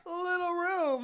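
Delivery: high, loud squeal over a tiny room; exaggerated high-pitched cooing; mock gasping delight. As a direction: squeal it in comic wonder. Mimicking their reaction to the room.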